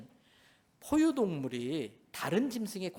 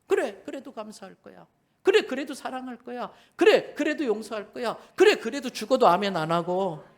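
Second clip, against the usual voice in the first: louder, firm resolve building; defiant believer; 4 semitones higher, 7 dB louder than usual. Acted. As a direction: answer back the tempter boldly.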